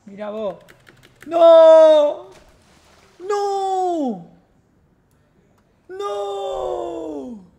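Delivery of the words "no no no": high loud cries of no; frustrated shouting. Real, not acted. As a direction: scream it out in despair. Dies again, repeated yells.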